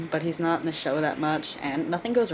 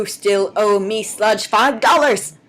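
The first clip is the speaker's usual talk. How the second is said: playful character voice; 5 semitones higher, 7 dB louder, slower than usual. Pretend. Playfully voicing a character at Sludge.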